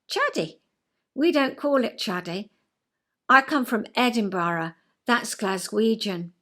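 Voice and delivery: lightly imitated Scottish manager; a hint of put-on Edinburgh Scots; attempted Edinburgh Scottish accent. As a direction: correct them in a rough Scottish accent. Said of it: "I can't do a Scottish accent".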